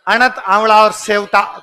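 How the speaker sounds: अणत, आंवला और सेवता said slowly, each name set apart; slow dictation. Shown as a demonstration. Teacher giving pupils three names to memorise, slowly. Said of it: "तीन याद करने हैं".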